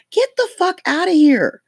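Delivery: high, loud get-out-of-here dismissal; incredulous outburst. Real, not acted. Comic ranting at a billionaire candidate, high loud dismissal. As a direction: throw it out high and loud in disbelief.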